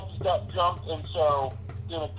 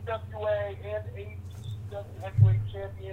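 calling in on a bad phone line; on speakerphone; 3 semitones higher than usual. Real, not acted. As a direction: voice over a speakerphone. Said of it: "Hey, we're losing you".

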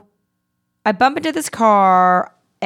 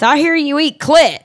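mock drunk old man; 7 semitones higher, 6 dB louder than usual. Drunk old man's crude line.

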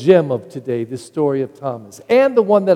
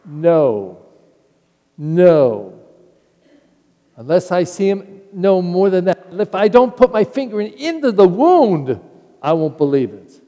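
louder, rising insistence; stubborn doubt; 4 semitones higher, 5 dB louder than usual. Acted. Thomas refusing the apostles' news, stubborn and insistent. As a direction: dig in and refuse.

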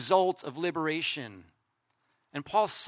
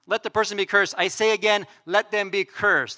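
all caps; 2 semitones higher, 4 dB louder than usual. Acted. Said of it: "firing up the all caps".

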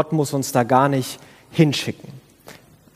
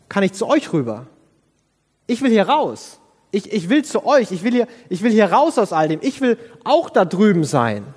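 higher, urgent plea to get out; desperate pleading; 5 semitones higher than usual. Pretend. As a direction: beg to be let out of there. Imagines his own plea from hell.

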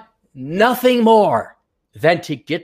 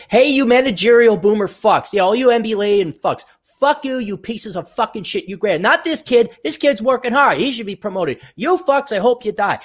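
mock angry rant; 3 semitones higher than usual. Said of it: "I say".

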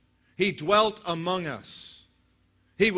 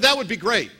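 THAT said louder, falling hard; keen, emphatic repeat of the offer; eager first take; 3 semitones higher, 6 dB louder than usual. Retold or imitated. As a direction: punch the first word with delight. Pastor retells contact's eager reply.

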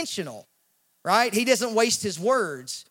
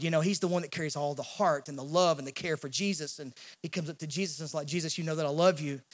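tender John; 6 semitones lower, 7 dB quieter, faster than usual. Retold or imitated. John voiced adoring Jesus.

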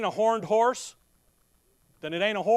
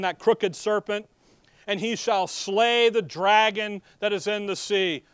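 slow, louder King James recitation; solemn scripture reading; 4 dB louder than usual. Acted. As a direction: proclaim the verses with weight. Reads King James scripture aloud.

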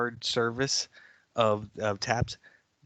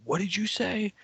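higher-pitched imitated yell from across the bar; mock yell; 9 semitones higher than usual. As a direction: bark "What did you say" like the giant guy. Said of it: "voice yelling at somebody".

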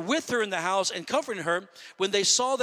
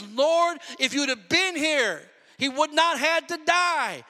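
higher-pitched, acted-out reproach of the Lord; offended complaint; 5 semitones higher, slower than usual. Sisters reproach Jesus for coming too late, offended. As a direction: protest as a let-down sister would. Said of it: "They probably were offended with Jesus".

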